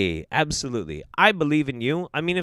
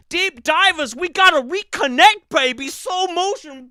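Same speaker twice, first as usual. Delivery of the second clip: mocking guru voice; 8 semitones higher than usual. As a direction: parody the dreamy guru.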